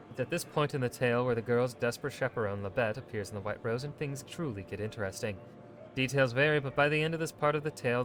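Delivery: steady storytelling read; measured narrator reading a codex entry; codex narration. Acted.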